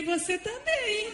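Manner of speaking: high teasing comeback breaking into laughter; laughing retort. Retold or imitated. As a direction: tease the husband back and laugh. Wife's comeback, then laughs.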